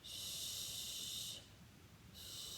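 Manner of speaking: soft unvoiced hush; whispered shh of the soul; soothing shush. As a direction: hush it gently like calming a child. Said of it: "my soul's just gonna go".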